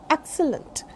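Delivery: excellent with weak schwas, EK-suh-lunt; model pronunciation. Shown as a demonstration. Teacher repeating excellent, correct EK-suh-lunt pronunciation. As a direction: reduce the later vowels of excellent. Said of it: "this is".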